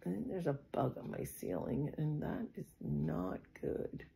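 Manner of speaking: hushed whisper aside. Real, not acted. Noticing a bug on her ceiling, nervous whisper.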